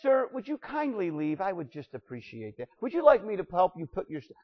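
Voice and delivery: a hint of a meek, apologetic doorman; mock polite request. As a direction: play it as a timid, polite usher. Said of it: "it doesn't read this way".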